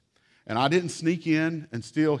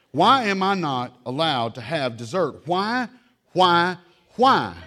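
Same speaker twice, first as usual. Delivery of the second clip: rising, louder why why why; mock childish wail; 5 semitones higher, 7 dB louder, slower than usual. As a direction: wail like a kid who lost dessert. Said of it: "a new entry".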